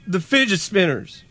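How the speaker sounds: slow, high Southern redneck drawl; a hick warning about dangerous toys; redneck accent. Acted. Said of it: "your redneck accent is improving".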